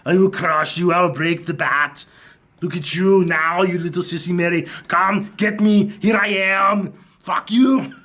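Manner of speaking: lightly voiced masked villain; Bane voice. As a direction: taunt like a hulking brute. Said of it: "I'm Bane".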